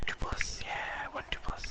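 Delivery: unvoiced whisper. Shown as a demonstration. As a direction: murmur the odds in a whisper. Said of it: "Three plus, two plus".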